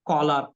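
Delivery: "collar" with a rounded o, "caw-lar"; Spanish-trainee pronunciation. Shown as a demonstration. Trainer showing Spanish trainees, collar said as "caw-lar". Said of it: "like that, right?".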